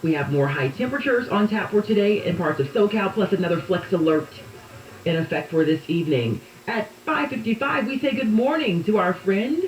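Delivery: morning headlines read to listeners; lively newsroom delivery; radio news read. Real, not acted.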